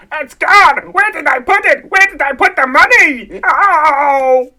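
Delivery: breathless panic over missing cash; panicked gasp. Acted. Uncle panicking over the lost deposit, frantic.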